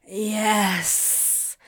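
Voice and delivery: long, drawn-out groan of a word; breathy, yielding groan. A narrator's reading. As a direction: groan it out with pleasure. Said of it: "Crowley groaned".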